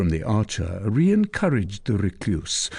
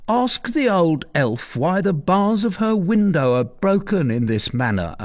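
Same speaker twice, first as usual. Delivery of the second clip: higher, pointed question; suspicious archer; 10 semitones higher than usual. Acted. Archer to Tristan, suspicious. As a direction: point out the clue.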